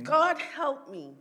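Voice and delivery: high, loud, slow cry to heaven; imitated plea. Mom calling on God from hospital bed, imitated wail. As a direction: act out calling on God, drawn out.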